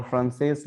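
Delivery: फ्रांसेस said with a closing sh; Portuguese pronunciation demo; Portuguese ending in sh. Shown as a demonstration. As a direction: finish फ्रांसेस on sh, not s. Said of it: "लिखा है हमने लेकिन पढ़ेंगे".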